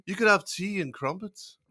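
put-on a light, wobbly English accent; mock Englishman, mistaken for Irish; attempted English accent. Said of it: "you gotta do it in English".

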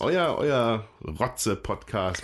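slow, laughing through the joke name. Real, not acted. Host jokes about the sick podcast, slow and laughing. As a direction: chuckle it out slowly.

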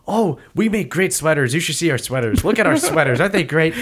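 mock chirpy enthusiasm; happy welcoming local. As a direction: show off your wares with glee. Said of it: "they're very welcoming, and they're very happy".

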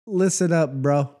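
hammed-up New York Italian-American accent. Telling bro about canned San Marzanos, New York Italian accent. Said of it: "Italian accents are from New York".

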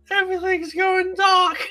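very high, laughing shouted fake Australian accent; laughing mock shout. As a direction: crack up while shouting the dying line. Mock Australian dying scene.

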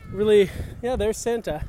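huffing and puffing uphill; winded from pedalling up a hill; out of breath. Real, not acted. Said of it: "I'm huffing and puffing 'cause we're going up a hill".

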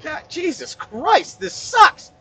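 high, drawn-out mock strain; straining to lift. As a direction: squeeze it out under a heavy weight. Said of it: "You know how it feels when you lift".

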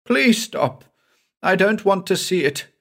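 high, pleading cry of a terrified man; frightened pleading. Acted. Terrified passenger begging the doctor to stop, high pleading. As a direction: beg him to stop, voice up high in fear. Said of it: "Then he began to plead".

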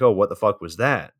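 understated, barely bothered surprise; mild reaction. Retold or imitated. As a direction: react mildly, in an everyday voice. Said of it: "he had the most mild reaction".

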